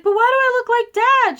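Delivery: high, loud, fast mock wail; hammed-up distraught plea, rushed; mock crying protest. Crying girl questioning mom's adoption story, distraught. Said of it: "I was, like, crying".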